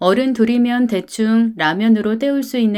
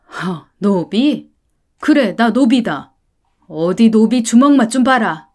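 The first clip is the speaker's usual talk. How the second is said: slow scoff, then loud threat; enraged father; 4 dB louder than usual. Acted. Insulted father threatening the rich parent, enraged. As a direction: boil over into a threat.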